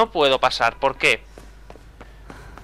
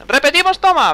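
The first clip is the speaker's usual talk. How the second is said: much higher, playful squeak; mock high repeat; 11 semitones higher, 4 dB louder than usual. Shown as a demonstration. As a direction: toss it off in a high silly voice.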